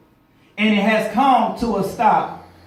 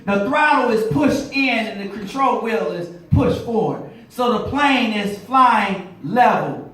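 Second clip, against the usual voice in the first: preaching. Acted. Pilot lesson turned sermon.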